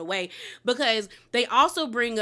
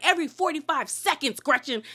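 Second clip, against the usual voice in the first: upset retelling; 3 semitones higher than usual. Retold or imitated. Heather repeating the statistic at Gretchen, mildly angry. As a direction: hit each word like an accusation. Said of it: "you could tell she was like".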